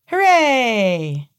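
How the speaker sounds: put-on high, loud childish hooray; over-the-top cheer. Little girl agreeing to play, shrill hooray. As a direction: overdo the glee like a part.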